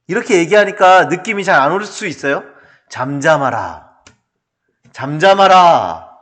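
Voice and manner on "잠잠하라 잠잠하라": slow, measured scripture-style command; drawn-out, stately hushing; unconvincing rebuke. Shown as a demonstration. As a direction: recite it too solemnly to sound like scolding. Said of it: "뭐 꾸짖지 않는 것 같잖아요".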